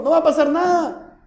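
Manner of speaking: defiant king. Retold or imitated. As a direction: play the king brushing off God's word. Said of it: "Le está diciendo". (el rey terco se burla de la advertencia)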